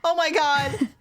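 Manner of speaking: fast, high and breathless; excited. Real, not acted. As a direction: rush it out, still rattled. Panicked after killing spider.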